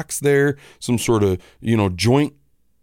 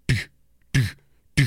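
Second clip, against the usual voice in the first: imitated cable slapping; much faster than usual. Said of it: "I can hear it go".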